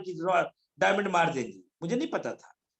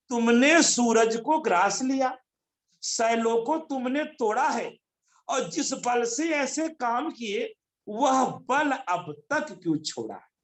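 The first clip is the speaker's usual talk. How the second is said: rousing verse recitation; 3 semitones higher, slower than usual. Acted.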